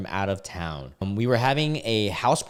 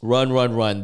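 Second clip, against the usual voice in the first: run; 3 semitones higher, 7 dB louder than usual. Acted. Urging escape from bad girlfriend.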